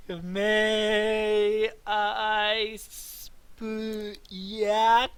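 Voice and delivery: stiff translator robot voice; stilted high electronic voice. Retold or imitated. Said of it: "like, a automated voice".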